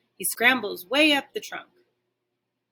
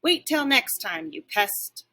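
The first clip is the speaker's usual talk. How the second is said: snarl; slower than usual. Acted. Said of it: "I bark one more snarl".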